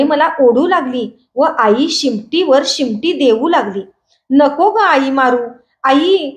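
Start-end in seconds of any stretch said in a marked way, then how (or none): 4.3-6.3 put-on boy pleading slowly with mother, a touch of crying. Boy begs his mother to stop hitting, pleading cry. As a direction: beg her to stop the beating. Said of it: "मी ओरडू लागलो".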